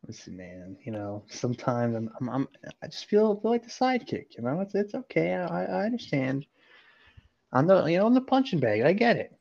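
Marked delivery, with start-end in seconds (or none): 1.3-9.3 mock hurt whine. Mock hurt sidekick complaint.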